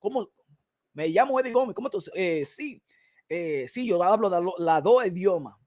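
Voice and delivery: very soft, low put-on voice; polite interviewee act. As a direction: play a demure, formal job candidate. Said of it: "I ain't talking like this".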